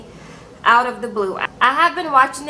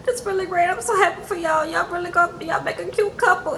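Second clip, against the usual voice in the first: higher, mock cheerful and insincere; forced cheer; 6 semitones higher than usual. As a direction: sing out fake congratulations. Mom fakes joy for the couple.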